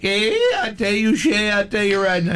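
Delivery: put-on a DJ clowning in a Russian accent; mock Russian accent. Radio host teasing his guest in a mock Russian accent. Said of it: "and you're like".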